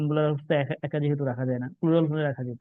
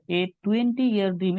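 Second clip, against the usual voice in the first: slow reread of the phrase; 3 semitones higher, much slower than usual. Shown as a demonstration. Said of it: "এটা সবই ঠিক আছে".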